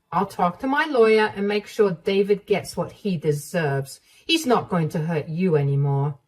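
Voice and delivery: protective mother-in-law. Acted. Mother-in-law promising to protect Emma, steady. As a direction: take charge calmly.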